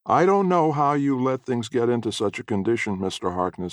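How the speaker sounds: a fussy neighbor woman tutting. Acted. Neighbor woman voiced in story.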